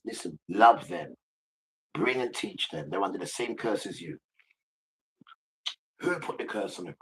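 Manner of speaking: lightly voiced divine instruction, key words stretched; Father. God telling followers to love them, lightly voiced and emphatic. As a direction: lightly voice a commanding God, stressing openings. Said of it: "'Cause he says".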